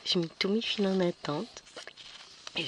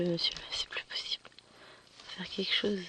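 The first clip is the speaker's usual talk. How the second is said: whispered; 7 dB quieter than usual. Retold or imitated. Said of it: "j'ai dit".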